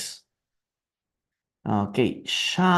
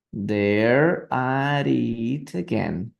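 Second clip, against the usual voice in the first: very slow, drawn out; slow repeat; 2 semitones lower, much slower than usual. Shown as a demonstration. Teacher slowly repeating the shouted line for students. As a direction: stretch the words for learners.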